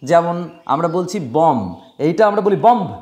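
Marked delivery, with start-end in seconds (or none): 1.4-1.6 বম ending on m, no b; silent B. Shown as a demonstration. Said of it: "বি উচ্চারণ হয় না". 2.7-2.9 বম্ব with an audible final b; wrong, B sounded. Shown as a demonstration. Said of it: "বম্ব নয় কিন্তু".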